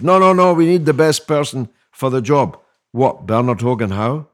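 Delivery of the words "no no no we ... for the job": loud, high mocking protest; mock indignant objection. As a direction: ham up a pompous objection.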